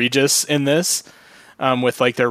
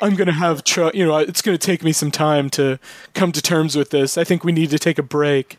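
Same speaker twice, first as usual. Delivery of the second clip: throaty vixen voice; 3 semitones higher than usual. Pretend. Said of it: "your woman voice".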